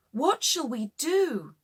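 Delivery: high, loud panicked cry; scared shout. A narrator's reading. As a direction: yell it in fear of drowning. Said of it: "Everybody was very scared".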